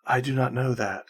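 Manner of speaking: soft, hollow ghostly voice. Acted. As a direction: speak like a distant spirit. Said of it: "this ghostly voice".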